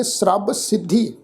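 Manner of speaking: "ਸਰਬ" as srab before "ਸਿੱਧੀ"; joined consonants. Shown as a demonstration. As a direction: run the s and r together in "ਸਰਬ". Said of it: "ਇਸ ਸ਼ਬਦ ਦਾ ਪਾਠ ਉਚਾਰਨ ਕਰਾਂਗੇ".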